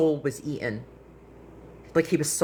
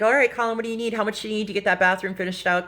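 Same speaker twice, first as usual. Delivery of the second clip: half-joking, higher-pitched retold question; 5 semitones higher, faster than usual. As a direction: rattle it off playfully, pitched up. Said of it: "I was joking".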